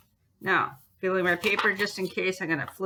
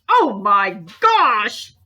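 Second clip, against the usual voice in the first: loud, slow, thrilled oh my gosh; delighted gasp; 8 dB louder, much slower than usual. Real, not acted. Crafter admiring her glued cover, drawn-out delight. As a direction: marvel at how well it worked.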